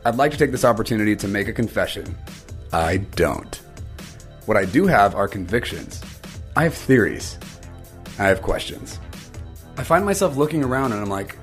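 measured podcast trailer read with weighted pauses; scripted intro read. Acted. Host confessing to listeners he lacks all the answers, scripted intro read. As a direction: deliver it as a scripted opening confession.

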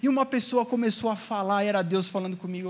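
a hint of a pulpit testimony; imitating a preacher. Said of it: "vinha outro pastor, pregava outra coisa".

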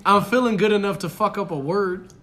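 tipsy and loud. Real, not acted. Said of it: "I'm a little tipsy right now".

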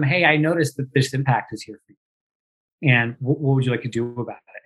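lovingly. Shown as a demonstration. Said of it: "a way to lovingly share with them".

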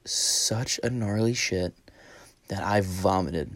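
slow, soft near-whisper; mock hushed report to corporate; hushed confession. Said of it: "she was like".

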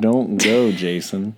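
a touch of begging, acted out; mock pleading. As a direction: plead lightly with someone by name. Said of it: "I thought they were pleading to him".

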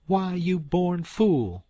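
slow, high angry hiss; furious hissed whisper. Acted. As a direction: spit the insult through the breath. Aunt Sally furious.

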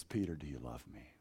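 soft question. Retold or imitated. Jesus asking Peter on the shore, soft. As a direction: ask quietly, tenderly.

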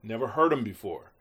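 impressed audience asking who this newcomer is; amazed crowd. Retold or imitated. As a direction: voice the crowd's stunned surprise. Crowd reacting to unknown producer.

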